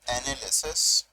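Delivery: very drawn-out, long silences between words; dictation. Shown as a demonstration. Teacher gives students the list to copy, slow dictation. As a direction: dictate piece by piece, leaving time to write.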